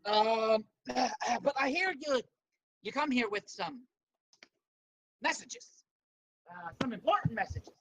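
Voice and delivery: lightly voiced Cajun accent; courteous stranger with a hint of Cajun. Bone Man asks travellers about their messages, light Cajun accent. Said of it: "I was gonna do a Cajun accent for him".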